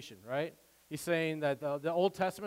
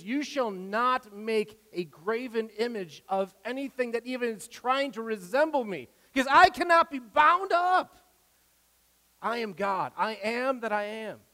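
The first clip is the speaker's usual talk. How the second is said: rising to a loud, high, near-shouted peak; excited preaching; 6 semitones higher, 4 dB louder than usual. Real, not acted. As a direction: let the excitement burst out as you voice God's words. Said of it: "forgive me, I'm not yelling at you. I'm just excited".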